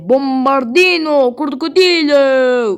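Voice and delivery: drawn-out announcer reading the name; slow announcer voice. Acted. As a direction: slowly announce it like a show host. Announcing the meme character.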